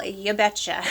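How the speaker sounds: a light Upper Peninsula Michigan Yooper twang; Yooper accent. Real, not acted. A fragrance reviewer slips into her Yooper accent answering her own question. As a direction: let a hint of the Yooper accent slip out. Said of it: "my U P accent just came out there".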